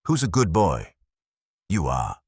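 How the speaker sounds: put-on doting baby talk to an animal; cooing. A narrator's reading. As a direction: coo over a happy pup. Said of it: "she cooed".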